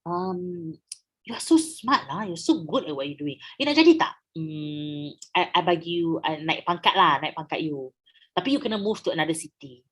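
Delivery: coaxing, flattering offer; a lightly voiced smooth recruiter; sweet-talking British. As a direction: lure Amira in with honeyed praise. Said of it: "I cakap ke Amira".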